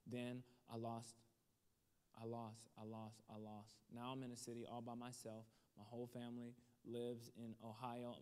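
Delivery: low, soft, halting retelling of pain; sorrowful confession. Retold or imitated. Waitress confiding her losses to customers, sorrowful. Waitress's painful story before she weeps.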